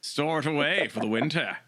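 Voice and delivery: lightly voiced wildlife narrator; a hint of a nature film narrator; hushed nature documentary. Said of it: "That was my nature documentary, uh, impression".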